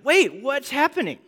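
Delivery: high, puzzled mock question; confused mom. Mom coming back to the movie, a high puzzled question. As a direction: act out mom lost in the movie. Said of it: "she's like".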